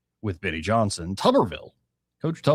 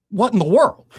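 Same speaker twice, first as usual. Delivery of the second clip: higher and louder, disbelieving outburst; incredulous; 9 semitones higher, 7 dB louder than usual. Real, not acted. Host reacting to pre-diabetic nine-year-olds, loud and incredulous. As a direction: throw up your hands in disbelief.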